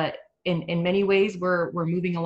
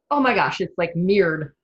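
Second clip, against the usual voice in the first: retold amazement, louder, pitched up on "Oh my gosh"; amazed reaction; 6 dB louder than usual. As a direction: relive the moment of astonishment. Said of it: "I turned around and I was like".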